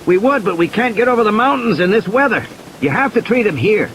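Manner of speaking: Ed pressing the doctor, no flight possible; insistent Ed. A narrator's reading. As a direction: insist there is no other way. Ed insists she treat him.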